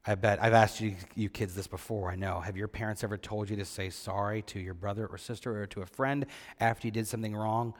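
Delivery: normal talking voice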